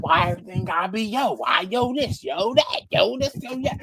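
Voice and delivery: rapid, rising mock nagging; fed-up complaining. Coworker griping about his yo habit, quick rising exasperation.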